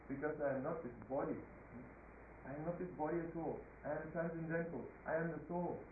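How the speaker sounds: gentle, understated reply to a king; quietly humble, measured answer; humble, polite. Acted. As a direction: explain calmly and respectfully, without arguing. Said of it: "in a very humble way, in a very polite way".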